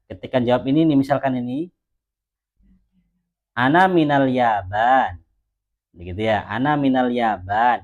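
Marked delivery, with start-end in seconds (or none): 3.5-5.2 slow "Ana minal Yaban", closed on a vowelless n; sukun ending. Shown as a demonstration. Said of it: "harokat akhirnya disukun". 6.5-7.8 slow "Ana minal Yaban", closed on a vowelless n; sukun ending. Shown as a demonstration. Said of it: "disukun aja cukup".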